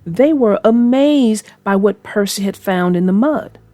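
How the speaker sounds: put-on storybook reading voice for kids; gentle read-aloud narrator; story narration. A narrator's reading. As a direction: read it like a bedtime tale. Narrates a children's train story.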